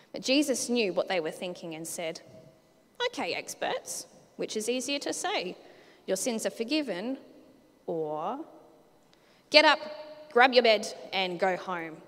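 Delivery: lively, animated storybook read-aloud with character voices; children's story reading. Acted. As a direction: read it to the kids like a picture book. Reads Bible story to kids.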